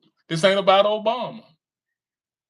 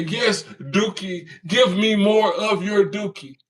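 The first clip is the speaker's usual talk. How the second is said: slow, drawn-out mocking fan plea; slow put-on begging voice, mocking; 4 semitones higher, slower than usual. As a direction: ham up a devoted follower begging. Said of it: "y'all say".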